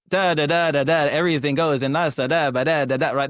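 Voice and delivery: lightly mocked sing-song Italian accent cadence; stereotypical Italian. Shown as a demonstration. Podcast host showing the stereotype, mock Italian accent. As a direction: bounce the syllables like a cartoon Italian. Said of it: "the stereotypical Italian one".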